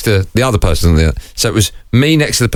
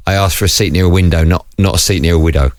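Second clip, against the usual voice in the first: put-on lower, lightly French-accented punchline; 5 semitones lower than usual. Husband confessing the joke he held back, mild French accent. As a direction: deliver the pun with a hint of French. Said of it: "say in a French accent".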